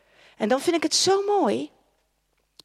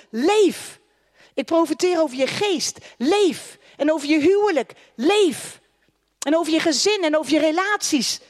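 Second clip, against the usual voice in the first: full-force preaching; 2 semitones higher, 3 dB louder than usual. Acted. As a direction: proclaim life over the crowd.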